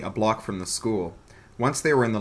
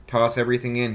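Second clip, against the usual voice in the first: commanding; 2 semitones higher, 3 dB louder, faster than usual. Acted. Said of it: "he commanded".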